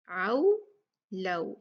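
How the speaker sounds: आउ, लऊ with open a sliding into u; correct leen glide. Shown as a demonstration. Teacher modelling the right sound, diphthong in आउ and लऊ. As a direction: clearly glide a to u in आउ and लऊ. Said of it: "इसको हमने औ नहीं पढ़ना".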